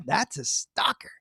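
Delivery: hushed unvoiced aside; whispered aside. Real, not acted. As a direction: whisper it conspiratorially. Aside after song.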